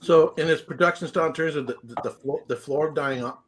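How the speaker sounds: talking with a mouthful of food; chewing while talking, food flying; messy loud eating. Real, not acted. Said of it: "excuse me, I'm eating my dinner".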